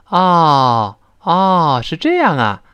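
long open ah as if it just dawned on you; sudden-realization ah. Shown as a demonstration. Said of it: "像恍然大悟那个". (恍然大悟地拖长“啊”)

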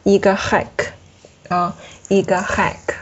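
"一个hike" slowly, with a uvular rasp starting "hike"; uvular French r. Shown as a demonstration. Teacher models the letter for students, uvular sound in "hike". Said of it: "小舌颤音这个啊".

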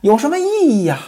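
high, tearful pleading woman; begging for mercy. Acted. Pan Jinlian begs Ximen Qing for mercy, high and tearful. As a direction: beg him to stop the whip. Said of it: "连连求饶".

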